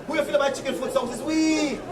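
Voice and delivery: a hint of a haughty rich voice; mock rich folk. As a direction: sneer a little as the rich. Voicing the rich about chicken foot.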